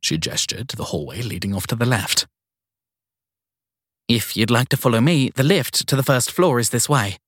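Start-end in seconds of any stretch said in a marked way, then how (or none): 4.1-7.2 put-on flustered young woman. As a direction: caught off guard and eager to please. Sadie leads the guest.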